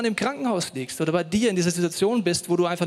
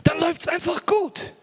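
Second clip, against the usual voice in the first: high, hammed-up gushing voice; mock the blessing-to-blessing crowd; preacher mocking people who promise an easy life; mocking prosperity preacher; 6 semitones higher than usual. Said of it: "Leute, die erzählen mir".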